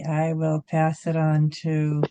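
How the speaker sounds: usual speaking voice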